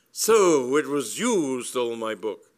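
high, loud opening pounce; indignant lady nailing the culprit; angry accusation. A narrator's reading. Lady Bassett confronting the supposed thief, loud and indignant.

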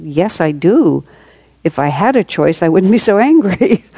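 mildly agitated retort, retold. Speaker answers a companion about a dreaded task, mildly agitated. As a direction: replay your own exasperated comeback lightly. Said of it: "I was really agitated about it".

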